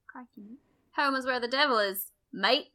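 hammed-up Aussie "mate" delivery; Australian accent. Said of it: "how would you do that in an Australian accent?".

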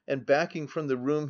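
ordinary delivery, nothing marked

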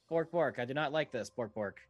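high, loud frightened cat; scared cat voice. Acted. Robot cat Mister Sparkles frightened of the scooter. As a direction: bork it out trembling. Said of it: "looks terrified".

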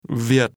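"Việt" on a low, broken tone; low falling broken tone. Shown as a demonstration. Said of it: "With the low falling broken tone".

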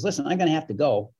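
a hint of a talk-show host, said fast; Jay Leno impression. Host excusing himself to the staff, lightly done Jay Leno voice, fast. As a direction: lightly mimic a busy comic rushing off, quick pace. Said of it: "That's my best Jay Leno imitation".

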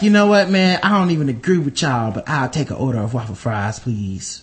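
low mumbled customer voice; low mock customer. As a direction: grumble the order, dropping low.

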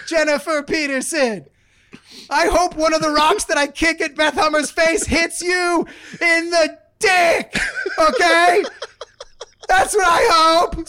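hammed-up furious yelling; mock angry rant. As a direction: rant and yell at the troll. Ranting back at the troll.

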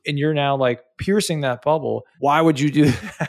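mock-rant it back at her; retold anger. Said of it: "but I was very angry".

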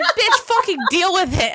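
high, loud yell with laughter around it; mock angry retort. They're telling the stung girl off, mock angry yell. Annoyed group yelling back, retold.

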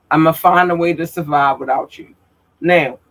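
talking with a dry mouth; parched mouth, sticky words. Real, not acted. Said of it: "I'm getting dry mouth".

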